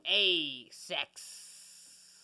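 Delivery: a lightly voiced Italian "A sex"; an Italian-accented "A sex". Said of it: "be, like, Italian and be like".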